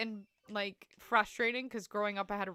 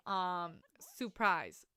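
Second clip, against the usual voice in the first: slow, tentative Southern "surprise", no first R; Southern accent; much slower than usual. Shown as a demonstration. Streamer asking if it's right, attempted Southern accent. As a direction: try "surprise" as a Southerner, dropping the R. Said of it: "say that in a Southern accent".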